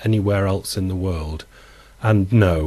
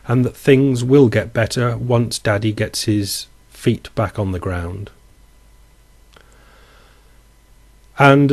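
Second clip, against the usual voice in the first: dramatic reading. Acted. Vlogger reads a viewer's Irish economy allegory, dramatically. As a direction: read it out like a tragic short story, with feeling.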